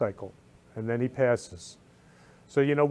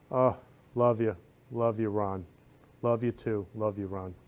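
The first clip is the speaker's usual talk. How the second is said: fond love you. Retold or imitated. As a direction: say it tenderly, trailing off. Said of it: "to tell him".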